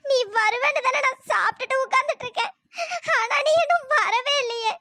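tearful reproach to a lover who never came; sobbing complaint. Acted. Girl abandoned, waiting. (அழுகையுடன் குறை)

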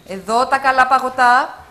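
loud street-seller call; vendor's shout. Acted. Ice cream seller calls out to passers-by, loud shout. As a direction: hawk the ice cream loudly. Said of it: "και φωνάζω".

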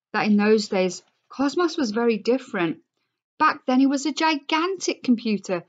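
expressive read-aloud to a class; story reading. A narrator's reading. Teacher reading the class novel aloud, expressive.

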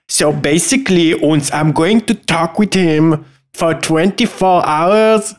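slow mock German with a thrown-in uns; badly faked German accent; fake German accent. Shown as a demonstration. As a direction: attempt a silly German accent, slowly. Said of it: "say at the beginning of every sentence the word uns".

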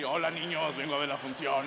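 put-on creepy old man. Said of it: "el viejo creepy".

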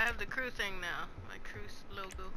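far from the mic; across the room. Real, not acted. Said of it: "sound like you're across the room".

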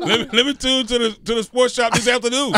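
high-pitched, laughing through the words. Real, not acted. Host cracking up over a replay show, laughing. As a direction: barely hold back the laughter while talking.

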